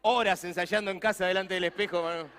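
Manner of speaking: loud, laughing aside; laughing joke. Real, not acted. Preacher laughing while joking with the congregation. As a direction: crack up at your own joke.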